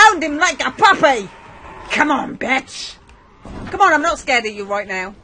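cocky taunting at a zombie; false bravado. Acted. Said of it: "Or maybe I am, a little bit".

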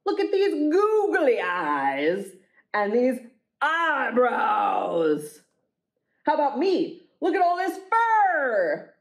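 high, slow monster show-off; boastful monster. Acted. Monsters arguing over who is ugliest. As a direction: puff up like a proud monster.

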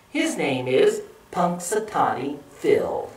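put-on measured picture-book reading for children; read-aloud narration. A narrator's reading. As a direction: read clearly, with careful phrasing. Reads a factual book.

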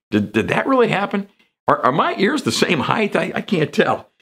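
a stunned man checking his ear; bewildered Malchus. Retold or imitated. Malchus wondering about his ear.

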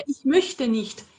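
"Ich möchte nicht" said slowly and deliberately; slow model sentence, "möchte nicht" drawn out; natural-sounding word order. Shown as a demonstration. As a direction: spell out the correct "Ich möchte nicht", unhurried. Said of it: "Porque soava ruim, era".

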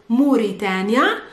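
Mauritania said the Arabic way, "Moo-ree-TAHN-ya"; Arabic pronunciation. Shown as a demonstration. Teacher giving learners the country's name, Arabic pronunciation of Mauritania. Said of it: "but in Arabic it's".

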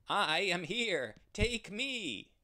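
high, loud calling out; desperate cry. Acted. The running ram calls to Abraham, high and loud. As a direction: plead at full voice. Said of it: "cried the ram".

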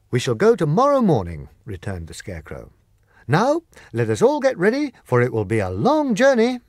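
high, loud devoted Scarecrow; swearing to stay by her; Scarecrow vowing. Acted. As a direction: loyal Scarecrow, loud and sure. Scarecrow plans.

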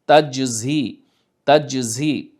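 তাজজি with tongue middle up then tongue tip behind teeth; tajweed pronunciation. Shown as a demonstration. Teacher drilling তাজজি for students. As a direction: say তাজজি carefully, sound by sound. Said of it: "জিভের সামনের অংশটা দাঁতের পেছনে যে ঝি".

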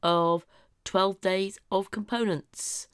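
hoarse, croaky throat; speaking through a croaky voice. Real, not acted. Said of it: "Please excuse the croaky voice".

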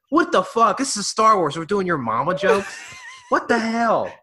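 loud, high, indignant shouting; outraged disbelief. Real, not acted. Fan ranting to a friend about the joke, loud outraged disbelief. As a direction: blast it like the joke is an insult.

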